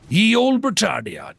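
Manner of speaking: high, drawn-out mock-grand proclamation; hammed-up theatrical voice. Streamer greets a viewer from England, hammed-up theatrical voice. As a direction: announce it slowly with silly pomp. Hails British viewer in silly voice.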